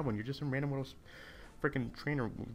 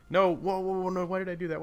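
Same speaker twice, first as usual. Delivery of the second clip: loud, high panicked no-whoa; alarmed outburst; 8 semitones higher, 8 dB louder than usual. Real, not acted. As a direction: yelp as the mistake happens. Reacting to a misclick in game.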